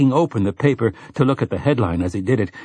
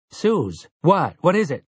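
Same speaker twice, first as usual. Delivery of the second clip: higher, urgent alarm; 7 semitones higher than usual. Acted. Eddie rushing to screaming Susanna, alarmed and higher. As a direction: rush to her, suddenly frightened.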